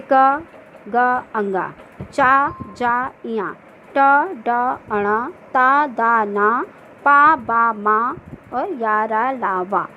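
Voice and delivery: each letter said separately with a distinct vowel; reciting letters. Shown as a demonstration. Teacher reciting the alpaprana consonants for the class. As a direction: call out the letters one by one. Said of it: "पहला, तीसरा और पाँचवा वर्ण".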